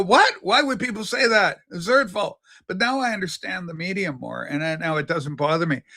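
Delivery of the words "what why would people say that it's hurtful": mock hurt surprise. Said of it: "you go".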